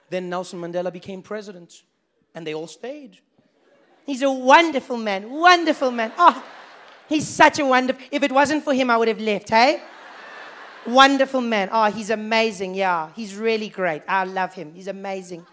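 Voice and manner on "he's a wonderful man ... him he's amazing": gushing white South African. Retold or imitated. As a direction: gush with relieved admiration.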